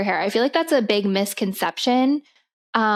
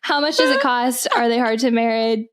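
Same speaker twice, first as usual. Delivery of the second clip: fighting real laughter. Real, not acted. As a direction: read on while holding back laughter. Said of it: "I don't know why I'm laughing".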